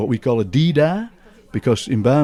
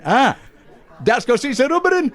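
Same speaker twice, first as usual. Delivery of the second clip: high-pitched giggling punchline voice; Uncle Jack laughing; 14 semitones higher than usual. Retold or imitated. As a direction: deliver the gag while laughing, pitched way up. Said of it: "And Jack went".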